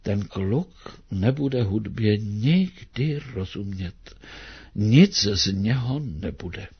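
mildly let-down, slow sigh of a verdict; a touch of parental disappointment; disappointed. Acted. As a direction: parents and teacher giving up on the boy, mildly disappointed. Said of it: "zklamaně opakovali".

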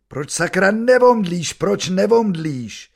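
high, anguished cry, then slow; inner scream. A narrator's reading. Father silently screaming at his son's endless pain, high anguish. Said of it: "Řvu".

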